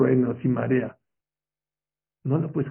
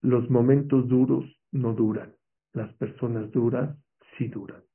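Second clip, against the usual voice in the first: quoted motto. Shown as a demonstration. Preacher reciting a motto to the congregation, weighty. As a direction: present the phrase like an inscription. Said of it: "Ahí les va una frase".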